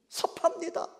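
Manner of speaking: whispered 섭합니다 with a little laugh; a playful hurt whisper; laughing sulk. Acted. Peter half laughing that he feels hurt. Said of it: "베드로 입장에서는".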